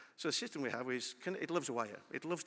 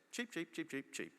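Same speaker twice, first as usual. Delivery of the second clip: a run of soft, higher chick cheeps, lightly imitated; chick cheeping; 4 semitones higher, 3 dB quieter, slower than usual. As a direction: peep like a newborn chick, a touch higher. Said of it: "That's all it can say".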